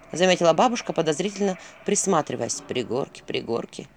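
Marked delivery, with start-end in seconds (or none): 2.7-3.9 low, soft muttering to himself; muttering owl. A narrator's reading. Owl puzzling over the village name, low mutter. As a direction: mumble the name twice under the breath. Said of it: "бормотал Филин".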